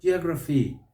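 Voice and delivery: "geography" the American way, jee-AH-gruh-fee; American open AH on the second syllable of "geography"; American pronunciation. Shown as a demonstration. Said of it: "The Americans may say".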